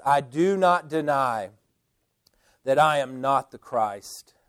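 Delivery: deliberate denial with a pause after "deny"; emphatic denial. Retold or imitated. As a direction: state "not" firmly and unhurriedly. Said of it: "John emphatically says".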